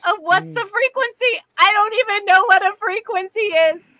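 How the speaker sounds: high, frustrated telling; annoyed. Real, not acted. Annoyed recounting.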